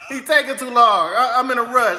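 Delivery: amused grumble with a laugh. Real, not acted. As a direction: chuckle through it. Laughing at slow website.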